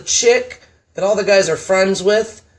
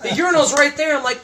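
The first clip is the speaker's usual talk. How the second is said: laughing through the words, pitched higher; 9 semitones higher than usual. Real, not acted. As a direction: laugh it out while telling the joke. Laughing while telling the story.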